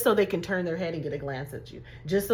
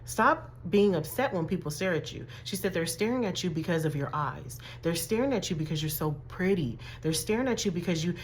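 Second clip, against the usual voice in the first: gentle mom; 6 dB quieter than usual. Retold or imitated. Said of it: "she sat me down and said".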